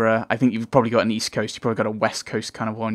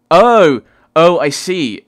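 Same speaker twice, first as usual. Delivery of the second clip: surprised; 5 semitones higher, 9 dB louder, much slower than usual. Real, not acted. Sudden realisation of a joke.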